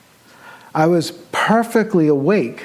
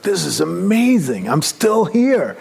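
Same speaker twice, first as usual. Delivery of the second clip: slow, rising amazed delight; lightly played awe; excited wonder; 4 semitones higher, slower than usual. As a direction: savour the discovery. Retold thrill on staying aware.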